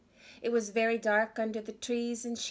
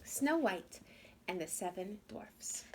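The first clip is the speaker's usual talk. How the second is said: story title; 4 dB quieter than usual. Acted. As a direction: announce the title, then hush it.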